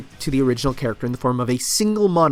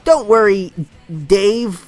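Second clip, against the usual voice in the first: higher, louder cartoon hero cheering up a friend; Sonic; 6 semitones higher, 3 dB louder than usual. Sonic consoling his human friend Dave, put-on high cartoon voice. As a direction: reassure in a high, drawn-out mascot voice. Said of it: "And then, you know, Sonic".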